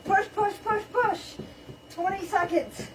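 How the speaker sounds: high, pumped-up fitness coach calling; aerobics instructor. Acted. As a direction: drive the class through the sprint. Counts down sprint like instructor.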